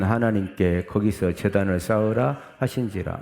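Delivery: steady, projected reading aloud; scripture reading. Acted. Preacher leads congregation through the verse, reading aloud. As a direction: read the verse out evenly to the congregation.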